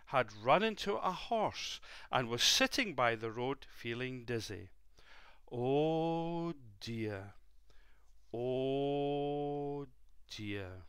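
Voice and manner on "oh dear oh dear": groaning soldier. Acted. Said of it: "groaned Angus".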